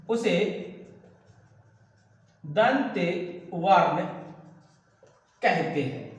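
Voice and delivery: drawn-out words with long gaps; word-by-word dictation. Real, not acted. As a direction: dictate slowly, pausing after each word. Teacher dictates while writing, word by word. (रुक-रुककर धीरे लिखवाते हुए)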